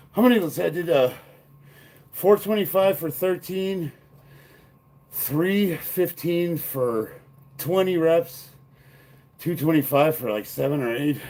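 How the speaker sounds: out of breath, panting; catching breath mid-sentence; gasping between phrases. Real, not acted. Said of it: "He's out of breath".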